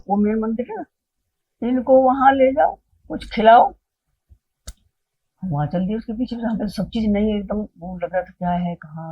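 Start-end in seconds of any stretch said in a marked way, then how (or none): 1.7-3.7 raised, high-pitched instruction; Baba Ji. Retold or imitated. Guru telling Vijay to feed the guests, calling out. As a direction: imitate a guru calling out orders. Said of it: "इतने में विजय को कहते हैं".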